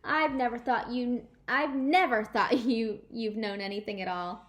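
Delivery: laughing through the tease; teasing laugh. Acted. Junie B teasing Sheldon, laughing. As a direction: giggle while you tease him.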